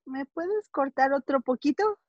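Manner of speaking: slightly timid acted question, a touch small; timid request. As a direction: mildly play a nervous client asking. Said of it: "Hasta miedo te da decirle".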